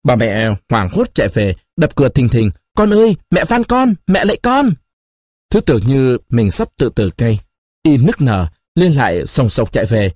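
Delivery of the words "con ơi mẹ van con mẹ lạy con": high, desperate cry of a begging mother; frantic pleading. A narrator's reading. Mother begging her son through the locked door, high frantic plea.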